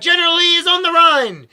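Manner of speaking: high, loud eager shout; excited cry. A narrator's reading. Grandma calling out war news to the family, high and eager. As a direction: call out the news with glee. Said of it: "she cried".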